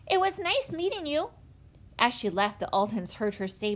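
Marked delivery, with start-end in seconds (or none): 0.1-1.3 high-pitched polite farewell; calling back. A narrator's reading. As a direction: call a goodbye over your shoulder. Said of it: "she called over her shoulder".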